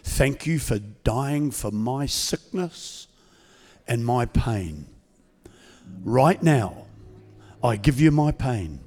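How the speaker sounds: slow, measured prayer for the church to repeat; prayer leading. Acted. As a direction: lead them line by line in prayer.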